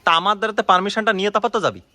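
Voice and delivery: indignant domestic row; angry reproach. Real, not acted. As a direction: demand an answer from your wife. Real quarrel with wife.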